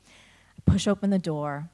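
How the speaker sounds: ordinary talk, nothing marked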